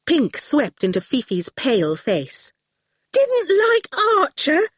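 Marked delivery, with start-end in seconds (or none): 3.1-4.7 very high, slow, incredulous question; near shriek. A narrator's reading. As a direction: echo it in scandalised disbelief. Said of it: "she almost shrieked".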